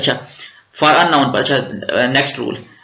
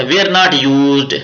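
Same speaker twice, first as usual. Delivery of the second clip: the rule read out very slowly; slow dictation; 3 dB louder, much slower than usual. Shown as a demonstration. Teacher dictates the grammar rule to students, slowly. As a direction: read each word out for the class to copy. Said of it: "teacher reads heading aloud".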